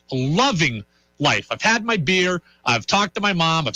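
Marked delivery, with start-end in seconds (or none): 0.1-1.5 Loving life drawn out slowly, each word stretched; slow savoring. Shown as a demonstration. Repeating it to listeners, slow and savoring.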